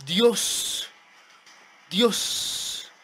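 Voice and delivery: high-pitched, stunned exclamations; astonished reaction. Real, not acted. Gamer reacting live to a sudden play, astonished. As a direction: let amazement spill out in repeated words.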